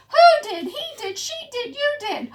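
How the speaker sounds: 서로 탓하며 높게 따지는 목소리; high accusing squabble. Acted. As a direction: point and blame everyone. Accusing each other.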